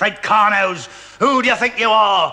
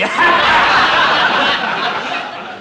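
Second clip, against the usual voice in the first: mocking laugh; 5 semitones higher than usual. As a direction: laugh at them to belittle them. Sergeant laughs at the platoon.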